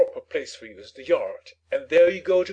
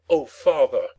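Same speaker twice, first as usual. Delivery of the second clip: indignant mimicry; 2 semitones lower, 7 dB louder than usual. A narrator's reading. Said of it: "What do you mean by".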